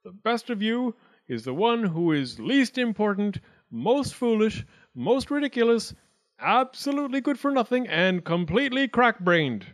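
high, grand pronouncement; grandest air. A narrator's reading. Wildcat gives the acorns his verdict, grand and high. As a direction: deliver it with pompous judicial weight. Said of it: "he put on his grandest air".

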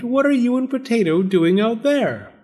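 high, astonished question; exclaiming. A narrator's reading. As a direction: ask in lively surprise. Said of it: "she exclaimed".

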